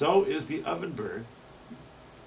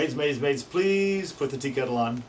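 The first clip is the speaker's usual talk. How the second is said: song sparrow mnemonic; 3 semitones higher than usual. Shown as a demonstration. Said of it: "Listen to this one".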